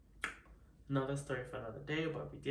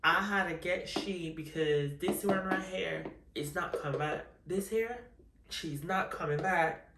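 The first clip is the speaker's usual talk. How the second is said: put-on Bajan accent; 3 semitones higher than usual. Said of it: "Should I do the Bajan accent?".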